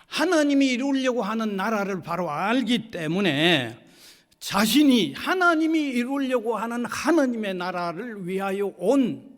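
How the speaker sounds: preacher driving the point home; emphatic preaching. Real, not acted. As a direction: preach it with rising insistence.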